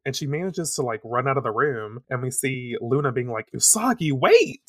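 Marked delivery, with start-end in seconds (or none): 3.5-4.6 high, loud call after someone; rising to a high cry to halt them. Acted. Luna calling after Usagi running out, calling out.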